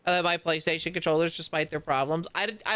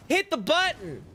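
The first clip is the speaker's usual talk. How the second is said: high frustrated yell at the game; raging gamer; 10 semitones higher than usual. Real, not acted. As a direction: snap at the controller in real rage. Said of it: "I'm, I'm raging".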